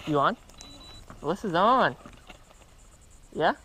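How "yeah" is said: ordinary talk, nothing marked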